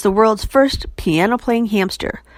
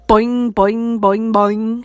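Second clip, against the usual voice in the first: a bouncy frog voice, springing on each boing; boing like an excited frog; much slower than usual. A narrator's reading. Frog answering the hamster, excited frog voice. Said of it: "sound like a very excited frog".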